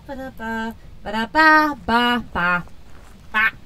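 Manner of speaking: squeaky ba-da-ba sounds; bat noises. Shown as a demonstration. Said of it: "I'm just saying bat noises".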